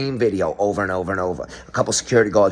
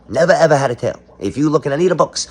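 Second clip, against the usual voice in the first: mock outrage; 6 semitones higher, 5 dB louder, faster than usual. Mock outrage over monkey tail.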